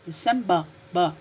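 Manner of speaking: December ending in open "ba", no R; British pronunciation. Shown as a demonstration. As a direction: repeat December British-style, then isolate the final "ba". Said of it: "The British pronunciation".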